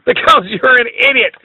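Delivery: speaking through high laughter; laughing. Real, not acted. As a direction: cackle while you answer. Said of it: "why are you laughing".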